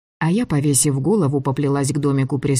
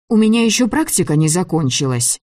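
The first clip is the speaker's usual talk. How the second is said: heroine's raised protest on «закончилась»; 4 semitones higher than usual. Acted. Girl objecting that practice isn't over, protesting.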